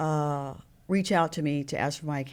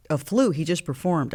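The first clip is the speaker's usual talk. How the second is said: incredulous; 4 dB louder than usual. Retold or imitated. Disbelief at manager's excuse.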